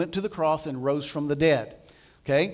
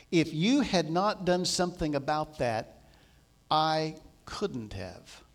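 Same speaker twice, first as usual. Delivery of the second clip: grave calm; 4 dB quieter than usual. Retold or imitated. Jesus answers, slow and grave.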